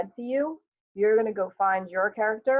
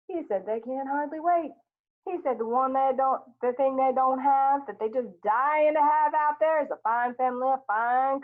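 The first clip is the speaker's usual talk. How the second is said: lightly voiced Walter, higher and mocking; teasing Walter; 6 semitones higher than usual. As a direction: pass on the message with mock enthusiasm.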